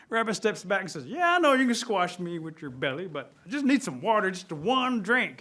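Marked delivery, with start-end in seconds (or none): 1.0-5.4 raised, insistent plea, last words stretched; exasperated pleading. Acted. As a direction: bargain hard for a small favour. Rabbit pleads with threatening bear.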